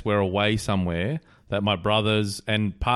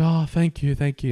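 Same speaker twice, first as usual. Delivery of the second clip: lightly voiced grateful woman, pitched up; higher, lightly acted gratitude; 6 semitones higher than usual. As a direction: gush thanks as the joke's young lady. Retold grateful woman in joke.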